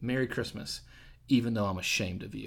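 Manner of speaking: mock-deadpan, flat delivery. Retelling what a senior adult lady said while handing over a Christmas gift, deadpan. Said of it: "just deadpan".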